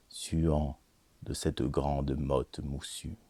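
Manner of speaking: measured, deliberate recital with long pauses; poetry reading. Acted. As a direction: recite sensual verse, lingering on phrases. Reads an erotic poem.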